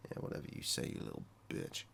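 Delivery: breathless under-the-breath jab; muttered insult. Real, not acted. Muttering an insult at the doctor on screen, unvoiced. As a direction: hiss it under your breath, barely there.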